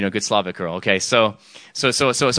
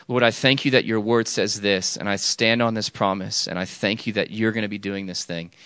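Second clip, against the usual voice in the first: settled prayer of thanks, easing softer; trusting prayer; 3 semitones lower, 4 dB quieter than usual. Shown as a demonstration. Showing intercessors the other way to pray, trusting thanks. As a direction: pray with quiet trust, no pleading. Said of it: "as opposed to".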